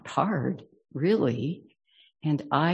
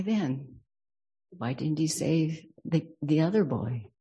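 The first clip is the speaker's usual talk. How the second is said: a father's pained questions about his sons; holding back emotion. Real, not acted. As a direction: ask why through held-back tears. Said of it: "I don't want to get emotional".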